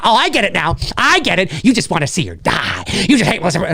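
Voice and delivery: a hint of smug sarcasm; mock smug accuser. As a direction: play the smug accuser who thinks he's caught you. Continuing mocking accuser voice.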